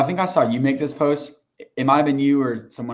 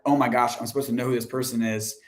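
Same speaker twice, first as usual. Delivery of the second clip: flustered prospect; 3 semitones higher than usual. Retold or imitated. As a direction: play a prospect caught off guard. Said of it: "the tone that they gave back was like".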